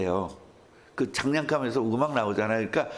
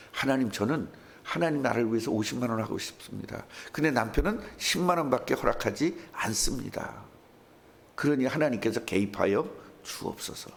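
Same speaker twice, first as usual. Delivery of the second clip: prayer; 4 semitones lower than usual. Shown as a demonstration. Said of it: "이렇게 기도해야 되지".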